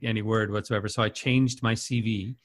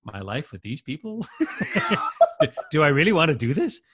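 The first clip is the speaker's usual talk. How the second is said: laughing disbelief; 2 semitones higher than usual. Retold or imitated. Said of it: "And I was like, going".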